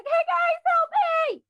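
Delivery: put-on high, loud call for help in a southern accent; southern-accent shout. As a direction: holler to the group with a southern twang. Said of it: "But, you know, with a southern accent".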